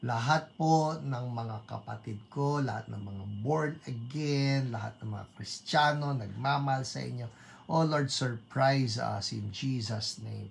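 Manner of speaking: low, measured prayer voice. Real, not acted. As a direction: pray earnestly for the congregation. Prays for the congregation. (taimtim na panalangin)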